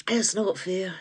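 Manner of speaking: unvoiced whisper; whispered complaint. Real, not acted. Complaining to the viewers, sulky whisper.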